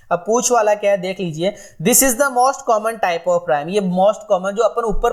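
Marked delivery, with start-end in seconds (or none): 1.8-3.7 slow dictation. Shown as a demonstration. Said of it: "teacher reads definition slowly".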